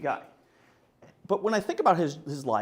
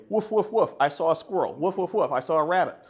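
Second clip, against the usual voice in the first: talking dog; 4 semitones higher, 4 dB louder than usual. Pretend. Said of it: "it can say".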